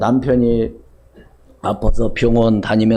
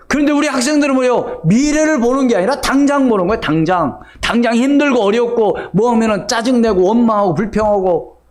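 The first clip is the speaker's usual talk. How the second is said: higher-pitched, insistent preacher voice; forceful preaching; 8 semitones higher than usual. Acted. Preacher chiding impatient students to the congregation, forceful preaching. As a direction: preach it with urgency.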